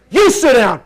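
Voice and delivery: kid's mocking echo. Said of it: "the kid's like, like this".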